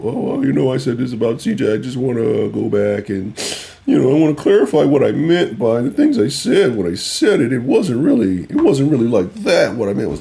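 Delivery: high, fussy mock voice of a pundit walking it back; mocking backpedaling critic. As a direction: play a sheepish critic eating crow. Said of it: "you see people".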